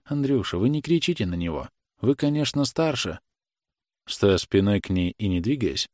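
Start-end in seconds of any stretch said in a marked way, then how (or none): 0.0-3.2 the mother gently asking Andrei not to shout; pleading, tender. Acted. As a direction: ask him gently, almost begging. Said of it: "просительно ласково".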